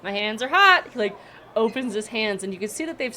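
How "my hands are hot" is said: high, louder gnome voice; weary gnome. Acted. Gnome telling the party about their hot work, high. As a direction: complain with tired relief.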